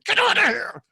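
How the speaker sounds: high, loud mock shout; mock meme voice. Host imagining a meme of himself, high mock shout. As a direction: squeal it like a silly meme. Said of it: "Me reaching into somebody's brain going".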